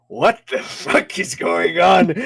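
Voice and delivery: slow, hammed-up disbelief; showy bewilderment. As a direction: make a big show of being baffled. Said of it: "big show of".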